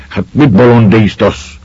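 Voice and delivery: half-hearted grumble at a joke; grumbling. A narrator's reading. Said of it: "morogta az egyik".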